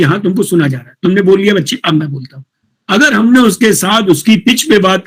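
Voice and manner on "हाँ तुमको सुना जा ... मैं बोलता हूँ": reassuring teacher. Retold or imitated. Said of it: "उसको ये एहसास दिलाइए".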